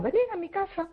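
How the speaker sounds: invitation jumping up high in pitch; eager invitation. Retold or imitated. Friend inviting them to a ouija session, high eager call. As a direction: call them over brightly, like an eager hostess.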